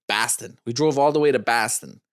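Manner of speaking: put-on a clumsy Boston accent, Bahston with no R; bad Boston accent. Husband jokingly puts on a bad Boston accent. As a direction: drop the R in Boston, Boston way. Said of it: "That's a bad Boston accent".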